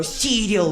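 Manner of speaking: "Cereal" said as "see-dyil" in a mocking Russian accent; incredulous Russian-style "Cereal"; Russian pronunciation. Shown as a demonstration. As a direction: exaggerate "Cereal" with a Russian tapped R. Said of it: "That's the word in Russian for cereal".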